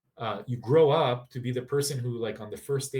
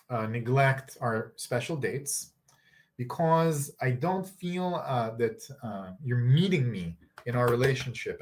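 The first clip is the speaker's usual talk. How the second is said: calm I-statement demo. Shown as a demonstration. Coach demonstrating an I statement to partners, calm. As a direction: model a gentle I statement.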